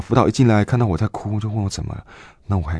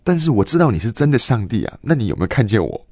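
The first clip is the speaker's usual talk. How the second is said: higher, louder pleading question; raised plea to God; 5 semitones higher, 4 dB louder than usual. Retold or imitated. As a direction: beg to be seen, voice lifting. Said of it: "我心中就在想". (向上帝提高声音恳求)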